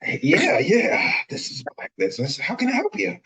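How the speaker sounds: loud, high African American voice; Black voice. Pretend. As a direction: put on a Black voice for the caller. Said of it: "let me put my Black voice on".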